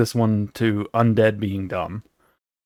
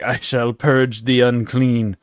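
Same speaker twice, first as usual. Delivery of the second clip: solemn cleric; slower than usual. Retold or imitated. Celeste voiced in recap.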